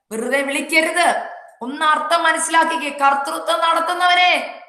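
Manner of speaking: high, sustained revival preaching; urgent, high-pitched sermon climax; fervent preaching. Real, not acted. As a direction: drive each phrase home to the congregation. Exhorts congregation at full force.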